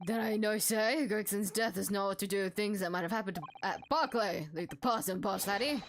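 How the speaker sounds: gruff Scottish prison governor greeting visitors. Acted. Prison governor greeting the returning detectives, in a Scottish accent. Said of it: "he has an accent. I can't do it".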